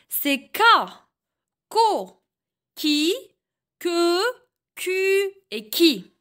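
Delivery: chaque syllabe en « j » détachée avec soin; syllabes articulées. Shown as a demonstration. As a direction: montre la syllabe, puis une pause. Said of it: "Je répète". (syllabes en « j » dictées au professeur)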